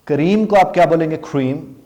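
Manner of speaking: کریم with rounded lips. Shown as a demonstration. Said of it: "آپ کے lips round ہوں گے". (ہونٹ گول کر کے کریم)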